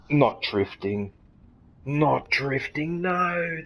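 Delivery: slow, drawn-out dismay; dismayed groan. Real, not acted. Player dreading the drift map they are bad at, dismayed. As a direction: drag each word out in dread.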